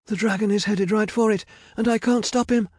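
high, loud panicked yell. A narrator's reading. Medea losing control of the dragon, yelling. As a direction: yell it helplessly over the danger. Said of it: "yelled Medea".

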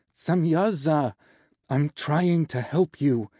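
slow, emphatic pleading; exasperated protest. Acted. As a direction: stretch the words out in frustration. Protest during painful treatment.

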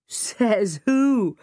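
put-on challenging boy's retort; demanding. A narrator's reading. George challenging the narrator, demanding. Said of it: "George demanded".

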